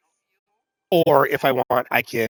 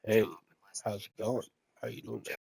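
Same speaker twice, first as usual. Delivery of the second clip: hammed-up seducer with long pauses; buddy wooing women; 2 semitones lower, 6 dB quieter than usual. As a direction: imitate a guy putting on a cool voice for women. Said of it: "they be, they be all like".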